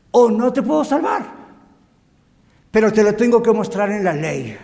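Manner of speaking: lightly voiced God, preached with force; stern God warning. God warning the lost sinner, stern and insistent. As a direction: deliver an urgent divine ultimatum. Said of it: "es para decir".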